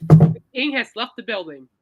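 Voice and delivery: loud announcer sign-off; announcer call. Pretend. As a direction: boom it out like a concert announcer. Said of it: "Ladies and gentlemen".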